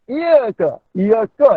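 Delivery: "iya ke" as a Malay question, single y; mock misreading. Shown as a demonstration. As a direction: ask "iya ke" in place of reciting it. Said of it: "Macam gitu". ("iya ke" macam bertanya)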